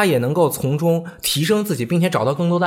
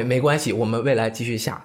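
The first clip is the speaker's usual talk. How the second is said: consoling mother; 5 semitones lower, 3 dB quieter than usual. Retold or imitated. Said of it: "她也出来说安慰".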